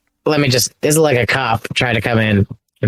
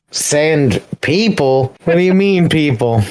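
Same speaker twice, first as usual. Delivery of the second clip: drawn-out, incredulous query rising higher; mock disbelief; 3 semitones higher, slower than usual. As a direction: question it as an offended gang boss. Acted disbelief at "sand people.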